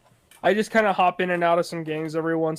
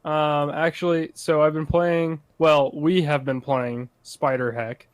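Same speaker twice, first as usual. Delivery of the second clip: anime voice. Pretend. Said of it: "let me tell you in this anime voice".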